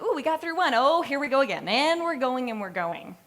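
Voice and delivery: high, loud, breathless mock panic; frantic rush. Classmates retold, frantic high loud voice. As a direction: play the frazzled classmates spinning out. Stressed cohort voiced in frenzy.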